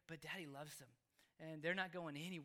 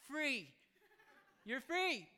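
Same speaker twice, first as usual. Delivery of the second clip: loud, raised cry of release; celebratory shout; 5 semitones higher, 6 dB louder, much slower than usual. Retold or imitated. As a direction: shout the good news to a child. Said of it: "we get them to shout that".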